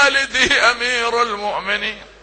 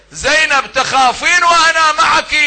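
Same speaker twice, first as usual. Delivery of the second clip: higher, louder comforting brother's call; Abbas reassuring; 7 semitones higher, 4 dB louder than usual. Acted. Brother to his frightened sister, a raised reassuring call.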